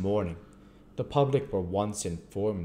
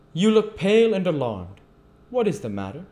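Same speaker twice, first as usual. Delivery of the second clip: put-on high, loud questioning of the boy; raised, projected old magistrate's voice; old gentleman; 11 semitones higher, 10 dB louder than usual. A narrator's reading. Magistrate asking a pale orphan what's wrong, high and loud.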